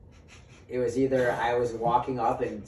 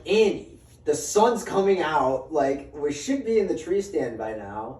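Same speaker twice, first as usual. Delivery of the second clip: urgent; 3 semitones higher, 4 dB louder than usual. Retold or imitated. Telling his friend they're late, urgent raised voice. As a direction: push him to hurry, voice up then settling.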